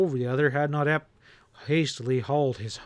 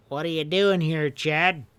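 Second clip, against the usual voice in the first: sharp question. A narrator's reading. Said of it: "he whipped out".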